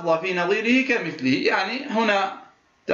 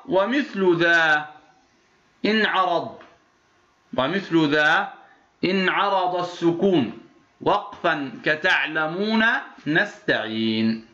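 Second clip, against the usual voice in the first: slow, measured chanting of a teaching poem; verse recitation; 2 semitones lower than usual. Acted. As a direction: recite the verse line slowly and evenly.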